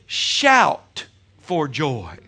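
slow, loud call; call to shout. Shown as a demonstration. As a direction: drag out "Shout for joy." loudly, leading the crowd. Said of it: "Everybody say".

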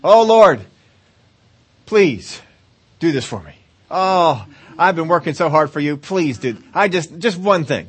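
lightly hammed-up pleading prayer; a hint of mock begging. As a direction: wheedle God for one favor. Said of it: "Or pleading".

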